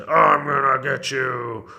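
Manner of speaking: angry dragon. A narrator's reading. Dragon to the witch circling him, angry threat. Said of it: "The dragon just got angrier".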